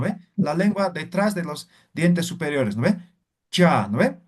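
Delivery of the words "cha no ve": cha with tongue behind the upper teeth; tongue behind the top teeth on cha; palatal cha. Shown as a demonstration. Teacher demonstrating the palatal cha sound. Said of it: "Ahora decimos cha".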